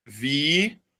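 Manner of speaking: VITÓRIA slowly split, long pauses between syllables. Shown as a demonstration. Teacher giving a paroxytone example, syllable by syllable. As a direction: draw out each syllable of VITÓRIA as if writing it. Example word broken up while writing.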